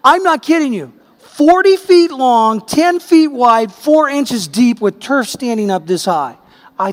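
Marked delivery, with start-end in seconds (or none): 1.2-3.7 her kelime ağır ve vurgulu; emphatic measuring. Retold or imitated. Describing the damaged lawn.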